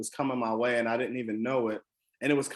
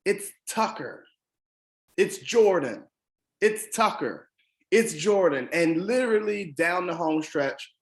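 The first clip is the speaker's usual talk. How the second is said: quick excited back-and-forth calls, higher and louder; mock race call; 5 semitones higher, 4 dB louder than usual. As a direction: call the lead changes like a breathless announcer. Neck-and-neck race, lead swapping.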